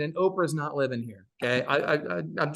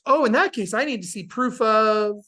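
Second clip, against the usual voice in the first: mock agent; 4 semitones higher, 6 dB louder than usual. Imitating the agent's demand.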